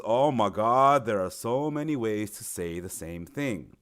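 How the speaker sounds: mildly acted student dismay; overwhelmed student. Student faced with many ways of telling the time, mildly overwhelmed. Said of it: "what they'll see is".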